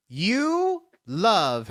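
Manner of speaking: exaggerated, stretched "You" before "love"; stress on YOU. Real, not acted. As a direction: lean long and hard on "You". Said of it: "am I allowed to emphasize you".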